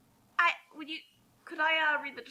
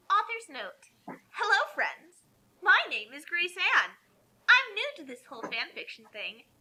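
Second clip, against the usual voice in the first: higher, gushing mock-mother; silly mommy voice; 5 semitones higher than usual. Reading the author's note as the clueless mother. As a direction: ham up the naive fanfic author. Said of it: "try to just sound extremely stupid".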